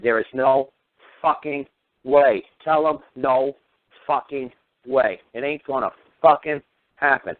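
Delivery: restrained replay of a yell, slow and emphatic; mock yell held near talking volume; retold yelling. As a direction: spell out the refusal in slow, weighty chunks. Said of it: "I was yelling at her".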